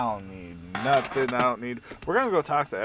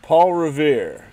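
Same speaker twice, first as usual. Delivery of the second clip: mock Paul Revere shout; 3 semitones higher, 11 dB louder than usual. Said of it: "He's like".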